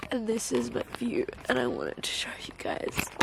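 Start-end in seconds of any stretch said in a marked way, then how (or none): 1.5-3.1 breathy whispered aside. Real, not acted. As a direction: whisper it to the camera. Whispering to the camera.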